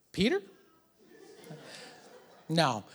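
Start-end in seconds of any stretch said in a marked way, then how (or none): 0.1-0.4 imitating an unsure child's questioning answer; tentative guess with rising pitch; clueless daughter's guess. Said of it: "And she's like".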